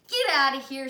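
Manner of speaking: put-on loud child telling him to leave; kid shooing away. Dee Dee chasing Ron away.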